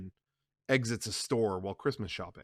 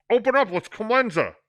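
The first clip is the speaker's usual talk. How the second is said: higher loud voice; called through door; 10 semitones higher, 8 dB louder than usual. Acted. Clemenza calling through the door.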